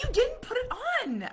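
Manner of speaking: high, loud frantic yell; yelling in alarm at a friend; panicked yell. Retold or imitated. Mom yelling at friend who forgot password, frantic.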